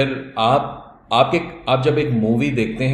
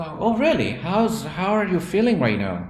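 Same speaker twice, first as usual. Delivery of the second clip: higher, slow, with a little laugh; surprised concern; 7 semitones higher, much slower than usual. Retold or imitated. Caller hearing the receptionist was sick, surprised and caring. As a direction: show caring surprise at her news.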